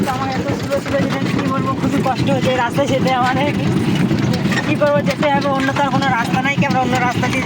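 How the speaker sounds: talking while riding over potholes; on a bumpy road. Real, not acted. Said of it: "দেখতে পাচ্ছেন রাস্তাটা এত খারাপ".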